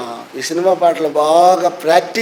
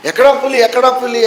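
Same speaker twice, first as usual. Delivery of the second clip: alarmed father; 5 semitones higher than usual. Retold or imitated.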